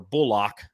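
"Bullock" with a drawn-out second syllable, bull-OCK; alternate pronunciation. Shown as a demonstration. Correcting a player's name on air, "Bullock" said as bull-OCK. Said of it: "It's not Bullock, it's Bullock".

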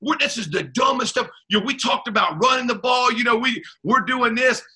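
half-hearted imitation of screaming; imitating himself ripping the coach; retold angry rant. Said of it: "I'm screaming at Tom".

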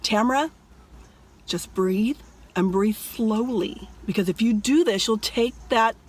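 soothing inner voice, slowing toward the end; calming self-talk. Retold or imitated. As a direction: talk yourself through it, unhurried and low-key. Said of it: "I told myself in the dream".

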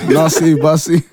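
bouncy rhyming call; playful rhyme. Real, not acted. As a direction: call it out for fun. Playful rhyming food list.

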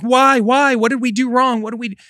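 high-pitched imitation of a distraught child; retold freaking out. Son reacting to his parents' divorce, imitated high and frantic. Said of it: "crying and freaking out".

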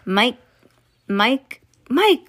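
mother's cry. Acted. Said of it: "cried Missus T V".

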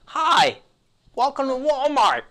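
high, slow, sing-song cashier greeting; chirpy store greeter, drawn out; customer service voice. Pretend. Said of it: "do your best customer service voice".

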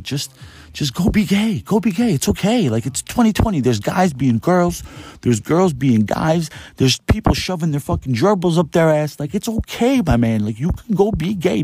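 high-pitched, exasperated reassurance; exasperated pleading. Acted. Pleading with the closeted cook to relax, exasperated and high.

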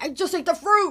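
high, laughing, innocent excuse; tipsy college self. Retold or imitated. Woman imitating her drunk self answering her cousin, high and laughing. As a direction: squeak it out like a drunk kid. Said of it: "I was like".

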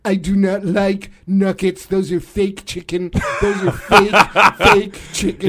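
lightly put-on blustery presidential impression; Donald Trump. President griping about his fried chicken, light impression. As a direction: lightly mimic a grumbling president. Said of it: "Donald Trump and Vladimir Putin".

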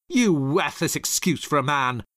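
a hint of a contemptuous sneer. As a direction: spit scorn at him, lightly. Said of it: "Rachel sneered".

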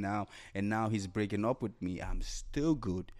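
calm affirmation. Retold or imitated. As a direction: say it like a settled promise to yourself. Calm affirmation of the victor mindset.

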